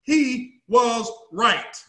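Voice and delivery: drawn-out emphatic statement; he was right, said very slowly; slow, deliberate. Shown as a demonstration. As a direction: let each word land slowly. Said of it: "repeated with slow emphasis".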